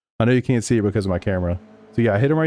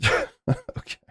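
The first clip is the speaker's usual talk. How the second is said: squeaky surprise; 4 dB quieter than usual. Real, not acted. Reacting to chat.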